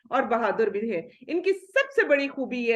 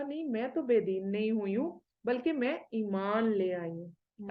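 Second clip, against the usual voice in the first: a calm, unruffled answer; calm and gentle; 2 semitones lower, 5 dB quieter than usual. Retold or imitated. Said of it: "اتنے آرام سے کہتی ہیں". (شوہر کو نرمی اور سکون سے جواب دیتی بیوی، دھیمی آواز میں)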